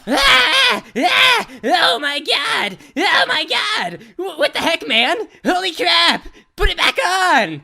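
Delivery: high shrieks, slowing into horrified yells; panicked screaming. Acted. Dash shrieking at Pinky after her wing is cut off, high panicked screams. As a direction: scream in horror as if the wing is really gone.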